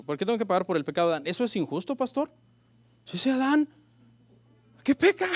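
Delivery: fast, rising indignant complaint; mock questioner. A church member complains to the pastor, fast and indignant. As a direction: whine it like a doubter protesting. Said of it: "una pregunta que me han hecho".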